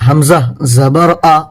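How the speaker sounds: each syllable stretched out slowly; teacher demonstrating slow Qaida reading; slow spelling demo. Shown as a demonstration. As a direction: model the reading method slowly. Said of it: "اس کو پڑھنے کا طریقہ رہے گا جیسے".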